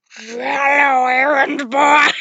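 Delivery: slow, eerie, crying melted-face voice; creepy Alice Angel voice. Acted. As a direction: drag the words out like a ghoulish cartoon angel. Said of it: "That was a horrible voice".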